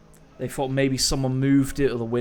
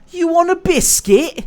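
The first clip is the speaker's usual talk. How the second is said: high, loud creepy doll voice; possessed; 11 dB louder than usual. Pretend. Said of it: "Did she say that in a demonic voice?".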